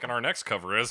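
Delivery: loud announcer intro. Pretend. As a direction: introduce the next song like a host. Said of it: "I'm like".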